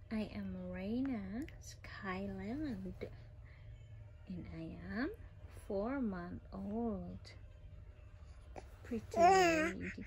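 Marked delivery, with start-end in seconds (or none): 0.1-7.2 slow whispered baby introduction, lightly voiced; speaking for the baby.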